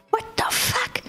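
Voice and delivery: the retold moment you can't believe it; shocked outburst. To the listeners about the speeding driver, shocked high squeal. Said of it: "And I'm like".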